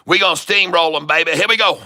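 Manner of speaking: rally the crowd, climbing at the end; rallying hype. Pretend. Trader rallying followers to buy, hyped up.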